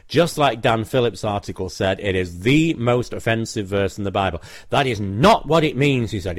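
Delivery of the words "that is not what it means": mildly indignant retort, punching "not"; retold anger. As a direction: imitate an angry objector, a bit higher. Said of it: "became very angry".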